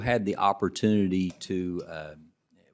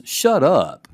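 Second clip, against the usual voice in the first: high, loud shriek of disbelief; stunned disbelief; 8 semitones higher, 9 dB louder than usual. Retold or imitated. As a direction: blurt it out like you can't believe who's calling. Teacher hears commissioner calling.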